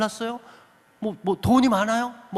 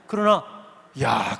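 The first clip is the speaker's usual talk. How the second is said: ordinary talk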